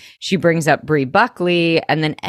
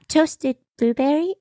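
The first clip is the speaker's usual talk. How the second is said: high, disbelieving mock echo; incredulous repeat; 9 semitones higher than usual. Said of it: "I could not".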